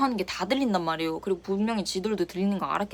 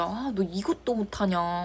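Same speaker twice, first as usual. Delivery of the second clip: dismissive scolding; 4 dB quieter, slower than usual. Retold or imitated. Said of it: "무시하듯이".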